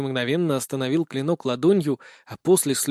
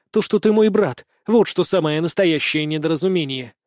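raised-pitch sibling indignation; indignant retort. Acted. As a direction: throw the insult back at them. Sister retorting angrily to brother.

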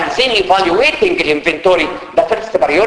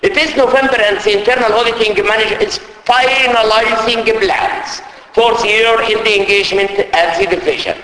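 slow, careful English read; reading the question aloud; 2 semitones higher, slower than usual. Acted. Teacher to students reading the exam question, slow. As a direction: read each word out for the class.

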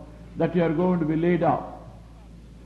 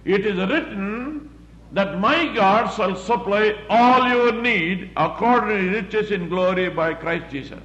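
top of your voice; 3 semitones higher than usual. Shown as a demonstration. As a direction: declare the scripture boldly, stretching it out. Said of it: "on the top of your voice".

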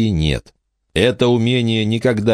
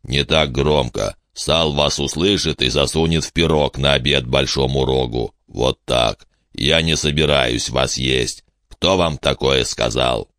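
hushing giant; 3 semitones lower than usual. Acted. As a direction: caution the children as a lumbering giant. Giant hushes and reassures children.

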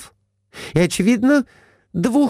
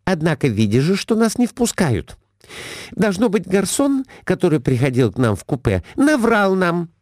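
high, shrill scolding wife; Глафира scolding; 9 semitones higher than usual. A narrator's reading. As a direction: pounce on the husband, up high. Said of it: "Набросилась Глафира Семёновна на мужа". (высокая сварливая отповедь мужу)

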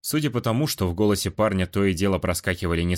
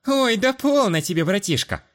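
carelessly dismissive; 13 semitones higher, 4 dB louder than usual. A narrator's reading. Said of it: "Небрежно отмахнулась она".

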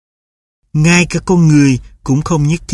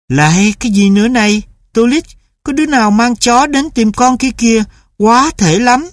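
much higher, exasperated mother's voice; irritated mother; 7 semitones higher than usual. A narrator's reading. Mother scolds son about a stray dog, much higher and irritated.

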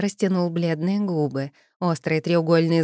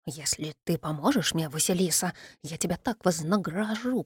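soft, luring water spirit; merman voice; 5 dB quieter than usual. Acted. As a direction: tempt her in a soft creature voice. Merman tempting heroine.

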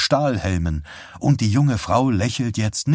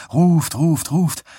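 calling out; 8 semitones higher, 4 dB louder, slower than usual. A narrator's reading. Man in next bed calls out.

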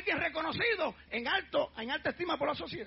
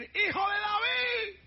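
slow, drawn-out pleading call; beggar's cry; 5 semitones higher, much slower than usual. Acted. Blind Bartimeo calling out to Jesus, slow pleading shout. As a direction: call out to him from the roadside.

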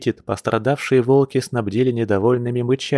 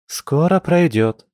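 high, slow, soothing female character voice; sympathetic; 6 semitones higher, slower than usual. A narrator's reading. Masha comforting the stung patient, sympathetic. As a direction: console them, drawing it out in a higher voice. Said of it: "посочувствовала Маша".

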